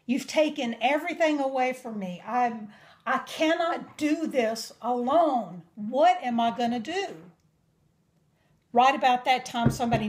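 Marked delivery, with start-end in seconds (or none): 0.0-7.2 crying prayer. Retold or imitated. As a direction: beg God through tears. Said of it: "And crying, I was like".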